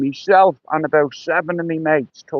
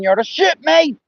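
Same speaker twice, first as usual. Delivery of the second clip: retold scream; 8 semitones higher than usual. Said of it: "he's fucking screaming".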